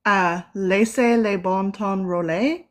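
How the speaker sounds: "laissez les bon temps rouler" carefully sounded out, "bon temps" with nasal French vowels; careful French phrase. Shown as a demonstration. Interviewer tries the Louisiana saying aloud, careful French pronunciation. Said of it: "I'm gonna pronounce this the best that I can".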